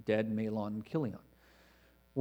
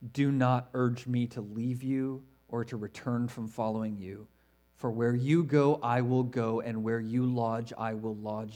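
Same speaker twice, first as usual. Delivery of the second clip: measured, reverent Bible reading; scripture reading. Acted. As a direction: read it like a sacred promise. Reads Ruth's vow from scripture.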